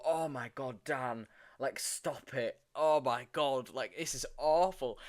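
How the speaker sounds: lightly hammed-up upset groaning; imitated distressed protest. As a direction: plead in pretend distress, like a castmate being made to feel bad. Imitating castmate upset by sad eyes.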